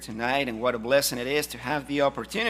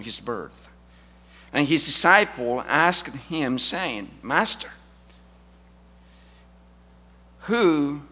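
scripture reading; slower than usual. Acted. Reads scripture aloud.

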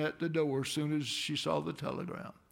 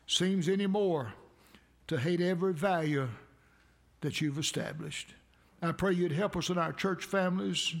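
earnest preacher's prayer voice; pastoral prayer; 2 semitones higher than usual. Acted. Pastor praying over the church after a Mother's Day story, earnest prayer. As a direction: pray over the congregation, steady and earnest.

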